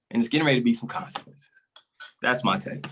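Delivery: breathless, worked up; out of breath. Real, not acted. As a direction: speak short of breath from ranting. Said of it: "I don't know why I'm out of breath".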